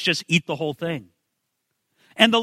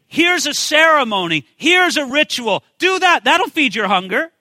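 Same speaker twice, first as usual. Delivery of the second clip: lightly acted, raised-pitch pitch to the crowd; empty religionist; 6 semitones higher, 3 dB louder than usual. Empty religionists offer rituals to hungry people, lightly acted salesmanship. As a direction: offer each fix eagerly, higher and a little louder. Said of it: "There's empty religionists who will say".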